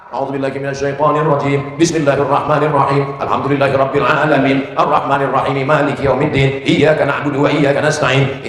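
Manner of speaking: rapid murmured recital; fast Quran recitation. Real, not acted. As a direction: rattle through the prayer quickly. Recites Al-Fatihah in Arabic.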